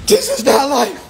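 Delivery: despairing worker. Retold or imitated. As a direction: voice a worker fed up with life. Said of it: "A lot of people's crying inside".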